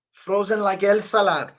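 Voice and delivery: high put-on British fighter voice; Paddy Pimblett. Streamer doing a fighter saying the Elsa line, imitated. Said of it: "Paddy Pimblett saying it".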